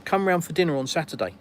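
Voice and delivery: straightforward, meant offer; sincere invitation. Acted. Russian inviting you round for dinner, sincerely meant. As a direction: invite plainly, with a slight lift in pitch. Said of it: "it's 'cause they mean it".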